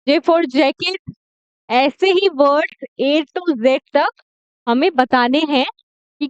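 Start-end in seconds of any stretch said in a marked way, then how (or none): 0.1-1.1 slow letter demo. Shown as a demonstration. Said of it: "slow phonics demo".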